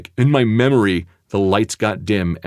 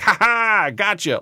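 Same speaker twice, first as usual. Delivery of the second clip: higher mock laugh then gotcha; teasing patient; 12 semitones higher, slower than usual. Patient pranking the narrator, imitated much higher. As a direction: tease like a dark joker. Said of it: "And he was like".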